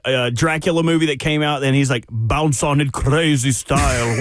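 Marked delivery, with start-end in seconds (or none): 2.1-4.2 vampire voice. Retold or imitated. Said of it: "in a vampire voice".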